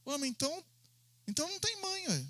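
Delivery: a quiet, high ué of confusion; puzzled student. Retold or imitated. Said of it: "ele ficou assim". (aluno intrigado, voz aguda e baixa)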